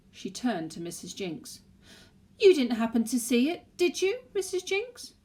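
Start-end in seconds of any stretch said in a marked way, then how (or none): 2.4-5.1 quizzical. Acted. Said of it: "she asked with a quizzical smile".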